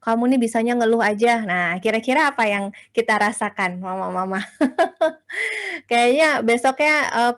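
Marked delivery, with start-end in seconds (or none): 0.0-1.4 dismissive husband. Retold or imitated. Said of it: "suami kita bilang gini". 4.4-5.8 laugh. Real, not acted. Laughing at her own example.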